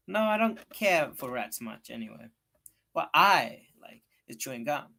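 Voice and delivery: brushing off rats, keen on gum; lightly voiced girl. Becky answers Tom.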